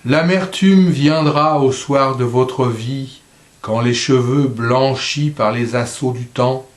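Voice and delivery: measured verse reading, fading on the last line; poem recitation. Acted. Reader reciting a poem to a mother on coming bitterness, measured recitation. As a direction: recite evenly, letting the ending sink.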